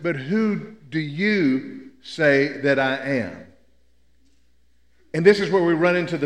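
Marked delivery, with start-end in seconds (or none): 0.0-3.5 solemn question. Acted. Jesus voiced, solemn question.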